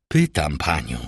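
low, cold composure; absolute calm. A narrator's reading. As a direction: repeat it with total control. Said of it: "powtórzył Villefort z absolutnym spokojem". (z absolutnym spokojem, nisko)

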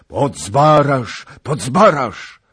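high, drawn-out rallying cry; strong voices shouting. A narrator's reading. A dozen lords echoing the king, strong shouts. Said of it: "powtórzyło kilkanaście silnych głosów".

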